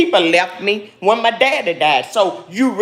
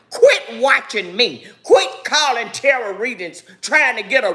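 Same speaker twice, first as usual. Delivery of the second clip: pleading through tears; real crying as she begs them to stop; crying plea; 4 semitones higher than usual. Real, not acted. Emotional rant, cry heard.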